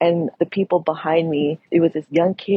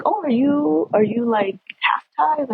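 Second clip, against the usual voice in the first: mock surprised question; 8 semitones higher than usual.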